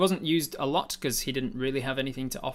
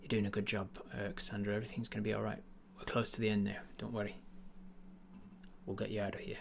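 soft whisper; 2 semitones lower, 8 dB quieter, faster than usual. Acted. Tyrant whispering comfort to Cassandra. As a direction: whisper comfort into her face. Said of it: "you whisper".

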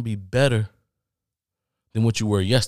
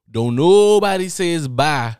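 emphatic; 5 semitones higher, 8 dB louder, slower than usual. Acted. Repeated emphatic point.

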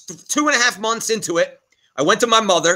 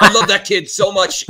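choking up. Real, not acted. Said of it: "I'm choking up".

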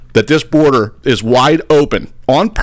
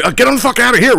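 National Guard; 12 semitones higher, faster than usual. Retold or imitated. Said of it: "They're like".

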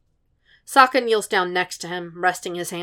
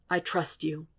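quiet; 7 dB quieter than usual. Acted. Quiet reassurance.

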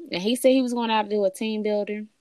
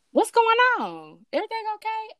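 worried mom; 13 semitones higher than usual. Retold or imitated. Mom voiced, worried about daughter.

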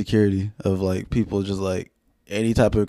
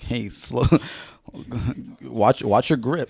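mock teacher; slower than usual. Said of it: "you sound like a teacher".

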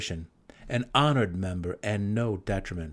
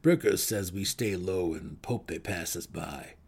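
gnome's voice; 3 semitones lower than usual. Acted. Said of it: "Belwer replied".

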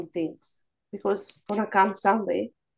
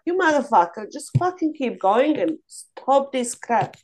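louder, half-joking curse at herself; mock angry self-scolding; 3 semitones higher, 4 dB louder than usual. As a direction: scold yourself out loud, mock fury. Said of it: "I'm like".

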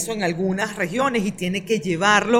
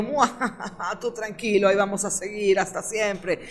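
villain cackle, then sneering reassurance; sneering panto villain; 5 dB quieter than usual. Retold or imitated. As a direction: ham it up like a gloating villain. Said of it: "Jorge Rodríguez, diciendo".

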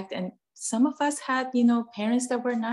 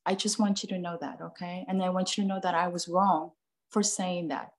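put-on sincere apology to child. Shown as a demonstration. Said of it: "you go to your child and you said".

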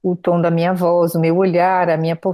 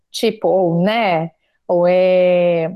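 filler demo; much slower than usual. Shown as a demonstration. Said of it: "é os prolongamentos".

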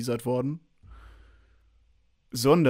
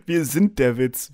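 laughing; 4 dB louder, slower than usual. Real, not acted.

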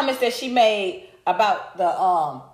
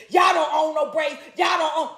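shouted, higher mock quote; 4 semitones higher than usual. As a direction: throw their line back at them, yelling. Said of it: "your defense is".

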